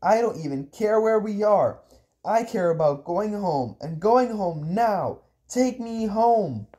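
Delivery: high, insistent demand; angry demand, stretching the last words; forced authority. Acted. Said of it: "with as much authority as I could generate".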